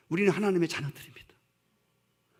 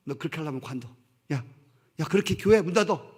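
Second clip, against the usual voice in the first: mock harsh rebuke; 3 dB louder than usual. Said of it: "이렇게 말씀하시잖아요".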